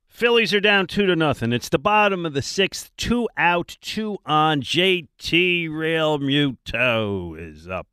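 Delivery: put-on slow, booming old-school play-by-play; drawn-out ballpark radio call, loud and high; Harry Kalas. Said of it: "That's a bad Harry Kalas".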